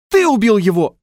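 high, loud accusing yell; accusing shout. A narrator's reading. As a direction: hurl the accusation. Accuser yells across beach.

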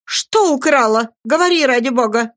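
high, loud urgent demand; urgent cry. A narrator's reading. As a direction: press her desperately for the answer. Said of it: "крикнула надзирательница".

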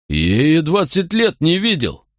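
put-on slow, high, choked-up drunk lament; tearful. A narrator's reading. Drunk centurion to his friend, slow and tearful. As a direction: hold back tears as the years sink in. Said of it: "В уголках глаз Центуриона выступили слёзы".

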